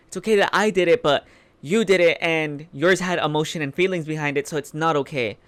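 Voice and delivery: quick, sassy mock of a hypocrite; sassy drag queen. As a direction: throw shade with a snappy lilt. Mocking Lestat's double standard.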